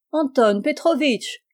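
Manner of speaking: high, drawn-out call of a name; high cry. Acted. Pélagie greeting her visitor, calling out high and drawn out. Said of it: "s'écria Pélagie du plus haut de sa voix".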